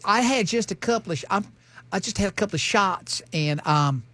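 lightly voiced tipsy woman; chick voice. Tipsy mom admits a couple of shots, mild chick voice. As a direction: do a mild mock chick voice, haltingly. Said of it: "I'm just doing a chick voice".

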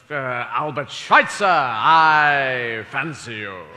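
slow, hammed-up poetic wooing; mock romantic. Teen boy wooing Susan, slow and hammed-up. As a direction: woo her slowly, overblown. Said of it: "to be able to say".

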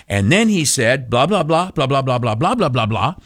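"blah, blah, blah" punched with swooping emphasis; mock-emphatic retelling, the "blah"s stressed; repeating with emphasis. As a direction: hammer each run of "blah" as if it mattered. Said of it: "I will repeat with emphasis".

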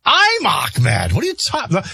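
put-on high-pitched Indian accent voice. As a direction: squeak it in a broad Indian accent. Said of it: "Ahmed always talked like this".

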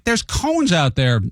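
repeating to the muttering driver, slow and exasperated. Retold or imitated. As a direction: drag it out like he's dense.

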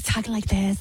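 lightly mocking effeminate man's voice; effeminate mimicry. Host mocks the man in the clip, lightly effeminate. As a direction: imitate him with a slight effeminate put-on. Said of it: "talk like an effeminate".

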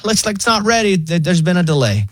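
high, relaxed AI operator; breezy phone bot voice; chill robot voice. Retold or imitated. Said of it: "And so they're like".

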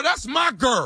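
hammed-up yell over the phone; mock angry shout. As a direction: shout it at the husband, play-angry. Prank inmate claims the wife.

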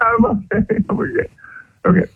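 high, nervous reassurance. Real, not acted. Caller assuring hosts before confessing, nervous. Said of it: "you sound so nervous right now".

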